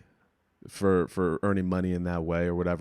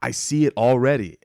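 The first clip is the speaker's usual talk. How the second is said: raised, eager voice imitating a happy fan; excited encouragement; 4 semitones higher, 3 dB louder than usual. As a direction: sound genuinely thrilled for him. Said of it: "he was so excited".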